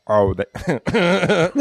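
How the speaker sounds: ordinary delivery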